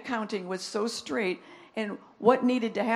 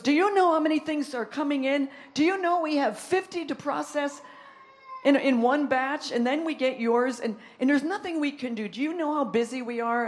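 exasperated complaint; 3 semitones higher than usual. Retold or imitated. Raymond complaining about workload.

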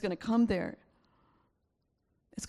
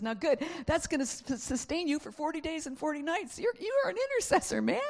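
angel voice; 9 semitones higher than usual. Acted.

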